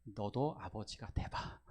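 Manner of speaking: slow, low fatherly reply to his son; father's voice. Retold or imitated. Father answering his eldest son, slow and low. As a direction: speak as a patient father, drawn out. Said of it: "이렇게 이야기했을 것 같습니다".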